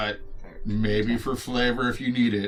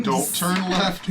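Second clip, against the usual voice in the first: slow, raised sword voice; 9 semitones higher, 4 dB louder, slower than usual. Acted. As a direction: play the sword speaking slowly. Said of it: "So the blade says".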